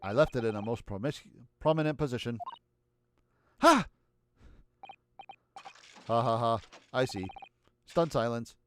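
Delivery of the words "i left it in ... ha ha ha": low robotic monotone; flat machine voice. Acted. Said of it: "We'll just do a robot voice".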